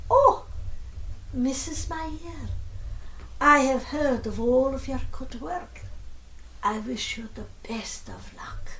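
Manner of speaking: put-on light, clipped British accent, fading to a hush; a polite British gentleman's clipped accent, lightly done. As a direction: emperor with a hint of a clipped British accent, ending in a whisper. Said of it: "He said in a very clipped British accent".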